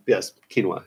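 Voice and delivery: "quinoa" confirmed as KEEN-wah, falling; corrected pronunciation. Real, not acted. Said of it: "I know how to pronounce that".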